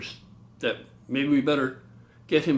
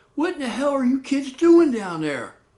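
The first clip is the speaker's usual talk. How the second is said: mock very high-pitched, shrill, furious shout; 12 semitones higher, 4 dB louder than usual. Retelling how a mother ran to the staircase: imitating someone yelling. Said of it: "so yells down to us".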